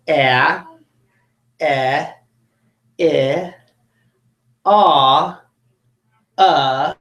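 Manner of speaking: short vowel sounds said one by one with a wide smile; 一个个发短元音，嘴角上扬. Shown as a demonstration. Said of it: "watch my mouth as I say the first sound".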